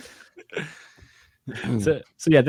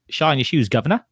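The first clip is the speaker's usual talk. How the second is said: mock Cockney accent; 4 semitones higher than usual. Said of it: "the classic".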